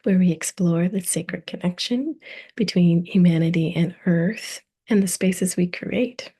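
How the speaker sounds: measured, carefully phrased host welcome; scripted podcast intro. Acted. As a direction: read the introduction with deliberate pauses between phrases.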